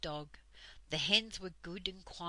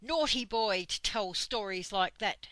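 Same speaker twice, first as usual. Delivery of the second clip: scolding Dame Slap; 6 dB louder than usual. Acted. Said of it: "said Dame Slap".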